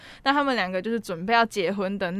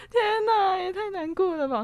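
天哪拔得很高，后面渐渐落下; 轻轻夸张地重现自己当时的哭腔; 模仿自己哭腔; 11 semitones higher, slower than usual. Retold or imitated. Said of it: "那时候就大爆哭". (回忆看片时自己的感叹，带点哭腔)

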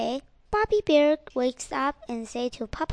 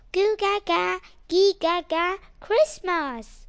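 put-on higher, louder babbling baby; baby talk; 5 semitones higher, 6 dB louder than usual. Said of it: "Baby Bear wakes up and shouts".

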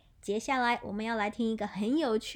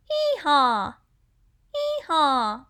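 donkey braying; 7 dB louder, slower than usual. Shown as a demonstration. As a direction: bray like a donkey. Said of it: "It's a donkey".

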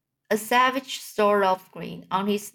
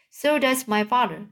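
higher, mocking whine; whining voice; 4 semitones higher than usual. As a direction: mimic him in a whiny voice. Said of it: "mimicked me in the whining voice".

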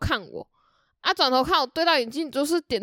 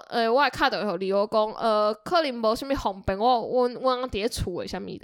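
Taiwanese. Retold or imitated. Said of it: "你不用一刻意用台语讲".

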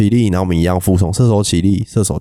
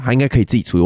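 fast shrug; 5 semitones higher, much faster than usual. Shown as a demonstration. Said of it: "男生说没事就是没事".

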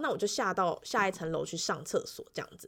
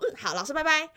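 put-on contented boy; 8 semitones higher than usual. Boy says goodbye, satisfied.

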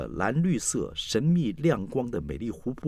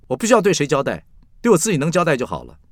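high, loud and indignant; defiant retort; 7 semitones higher, 8 dB louder than usual. Acted. Forty-year-old daughter to scolding mother, loud defiance. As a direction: talk back to mother with raised voice.

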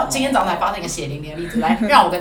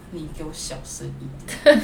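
scolding warning; 5 semitones lower, slower than usual. Retold or imitated. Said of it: "我说".

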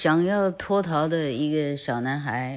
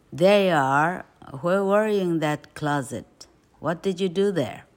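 scolding; 3 semitones higher, 4 dB louder than usual. Acted. Aunt catching and scolding boy.

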